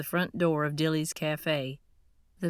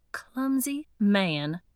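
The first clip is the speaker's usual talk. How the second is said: slow, sniffy put-down; scornful snort; 4 semitones higher, 3 dB louder, much slower than usual. Acted. Woman scorns the waiter after the spill, slow and sniffy. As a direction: say it with disdain, drawn out. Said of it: "Eileen snorted".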